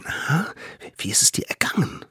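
hushed, quick nosy question; curious. A narrator's reading. Children under the blanket ask him, curious and hushed. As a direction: ask eagerly under your breath. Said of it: "fragten sie neugierig".

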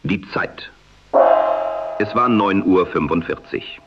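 am radio. Acted. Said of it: "durch künstlichen Intelligenz kreierten Stimme, die dem damaligen Sprechstil nahekommt".

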